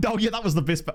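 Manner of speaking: a slip into a South African accent; accidental South African accent. Real, not acted. Reading a player's role aloud in a South African accent. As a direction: slides into South African vowels mid-word. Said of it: "I don't know why I sounded South African there".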